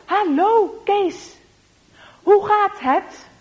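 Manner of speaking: high, loud, slow, over-articulated hello; clear friendly greeting. Acted. Rinus greeting deaf Kees, slowly and clearly. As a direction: shape every word for lip-reading.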